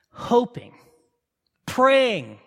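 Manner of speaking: breathy whisper, a hint of longing. A narrator's reading. Preacher painting Jonah on the hill, whispered. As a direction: breathe the word out, hushed.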